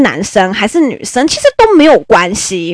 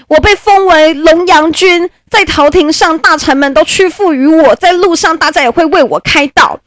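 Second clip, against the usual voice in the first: mournful favourite; 7 semitones higher than usual. Acted. Favourite fears being discarded.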